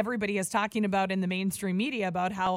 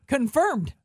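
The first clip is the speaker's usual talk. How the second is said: deadpan joke; 3 semitones higher than usual. Pretend. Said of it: "tweet him back and go".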